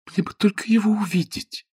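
breathless whispered wish, high; longing whisper. A narrator's reading. Sue longs to see Ronnie.

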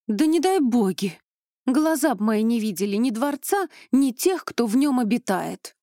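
loud, high indignant cry; angry outburst. Acted. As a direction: spit out her hatred of the palace. Vivianna protests angrily.

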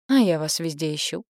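a hint of drunken delight; drunk elf. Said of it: "в пьяной, но очень довольной улыбке".

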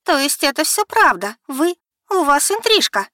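high, loud, stunned accusation; в ужасе и неверии; shocked disbelief. Acted. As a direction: realize the affair in horror. Becky confronts the affair.

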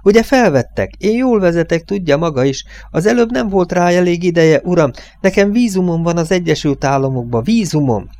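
agitated, high complaining voice; wailing protest. A narrator's reading. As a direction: plead like an upset kid left out. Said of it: "ordít a zokogva Bernardo a kölyök".

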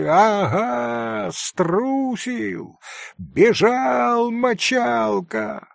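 put-on high, taunting kid voices; boys jeering. A narrator's reading. Boys mock the fleeing boy, a lightly voiced high taunt. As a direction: crow over the runaway. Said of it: "В группе загалдели".

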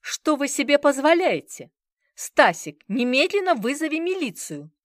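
high, loud indignant shriek. Acted. A patron demanding the police, high loud shriek. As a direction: squeal in outrage. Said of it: "Взвизгнул кто-то".

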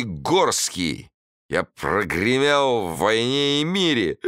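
put-on slow, high drunken boast; drunk rambling toast. A narrator's reading. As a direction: boast grandly, slurring and slow.

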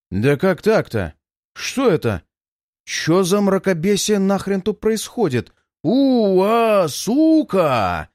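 disbelief rising to a swear; shocked, cursing under shock; stunned outburst. Acted. Shocked at seeing Alyonka.

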